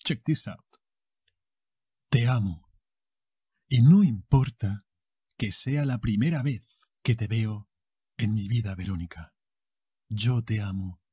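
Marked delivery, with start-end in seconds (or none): 2.1-11.0 telenovela lover. Acted. Acted telenovela love declaration.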